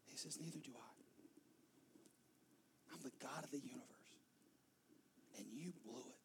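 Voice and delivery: soft unvoiced hush, tears close; tender whisper. Jesus to the woman, tender whisper. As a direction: whisper it to her gently.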